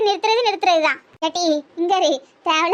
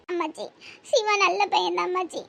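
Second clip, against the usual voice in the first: soft, weepy protest; tearful; 6 dB quieter than usual. Acted. Girl insisting to grandmother that he is good, tearful. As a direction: plead quietly through tears. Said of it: "நீ தான் அவனுக்கு சுத்தி அழுதுட்டு இருக்கா".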